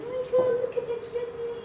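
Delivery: put-on high, fast cooing over a baby; cooing relatives. Relatives cooing at the newborn, high and gushing. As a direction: coo like a doting aunt.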